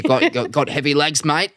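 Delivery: lightly done comic's mimicry; a hint of an Aussie bloke looming over you; casual impression of a mate; Dave Hughes. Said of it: "He actually sounded like him".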